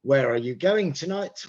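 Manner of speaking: "Where are you going tonight" with the pitch going up; rising question intonation. Shown as a demonstration. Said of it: "usually intonation goes up".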